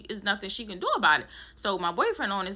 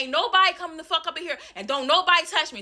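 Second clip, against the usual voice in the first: high, angry yell; furious yelling; 7 semitones higher, 3 dB louder than usual. Retold or imitated. Tenant warns everyone at the door, high angry yell. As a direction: warn them all off. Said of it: "I'm saying".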